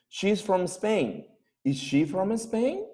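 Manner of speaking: slow, carefully spaced example; slow drill. Shown as a demonstration. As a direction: spell it out slowly for the class. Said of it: "slow drilled example". (muy lento, como dictado)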